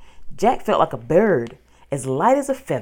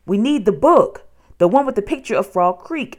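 louder, higher, pressing voice; frantic urgency; 5 semitones higher, 6 dB louder than usual. A narrator's reading. Boy hunts for the escape book, frantic urgency. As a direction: urgently call for what is needed.

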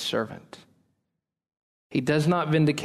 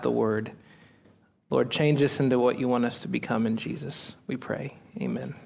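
prayer; 3 semitones lower than usual. Real, not acted. Opening prayer before sermon.

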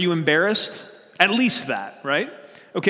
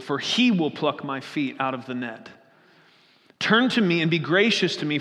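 solemn reading of a psalm; scripture reading. Acted. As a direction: read it like a prayer to God.

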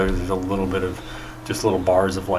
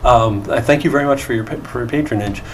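lightly voiced apologetic host, slightly high; polite calming; 5 semitones higher, faster than usual. Hosts calming singing guests very early, polite and mildly pleading. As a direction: politely try to settle noisy guests. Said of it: "politely trying to sort of calm them".

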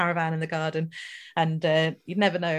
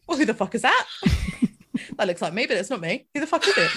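higher, indignant cat voice with laughs; cat voicing confusion; 3 semitones higher, faster than usual. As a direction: play the cat, baffled and outraged. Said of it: "the way she told it was".

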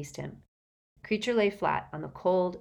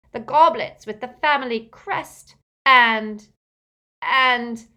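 higher, louder, mounting lament; distraught elf; 6 semitones higher, 8 dB louder than usual. A narrator's reading. Elf lists his stolen treasures, increasingly distraught. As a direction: build the list toward hysteria.

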